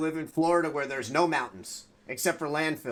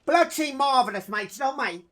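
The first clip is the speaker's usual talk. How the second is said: hammed-up British accent, a touch louder; mock British accent; 6 semitones higher, 5 dB louder than usual. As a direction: go full cheeky British bloke. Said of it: "I'm kinda posh".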